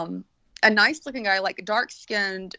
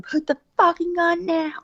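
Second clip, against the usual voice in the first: mock yell, higher; retold cop scream; 7 semitones higher than usual. Second cop yelling at the filming man, mock shout. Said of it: "he starts screaming".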